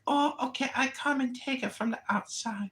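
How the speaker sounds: high, whiny immigrant tenant voice; mock tenant voice. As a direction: whine like a fretful tenant. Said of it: "And she's like".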